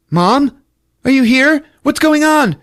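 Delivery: put-on high, loud, frightened child's calls; yelling out. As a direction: call out for mom, imitating a possessed woman. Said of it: "Annie starts yelling out".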